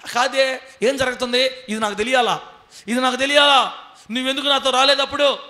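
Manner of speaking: a hint of an aggrieved servant; complaining to God. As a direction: demand an answer from the Lord. Servant questions God accusingly.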